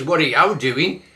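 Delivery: Black Country gaffer calling out; Black Country accent. Shown as a demonstration. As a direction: cut through machine noise. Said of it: "a lot clearer to understand".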